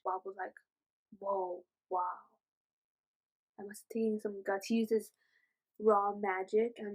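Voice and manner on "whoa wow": high-pitched, softly amazed reaction; awed amazement. Retold or imitated. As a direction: act out wide-eyed wonder, pitched way up.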